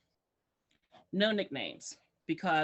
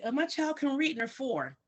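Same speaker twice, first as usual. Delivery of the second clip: imitated boasting parent; 6 semitones higher than usual. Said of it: "and they say".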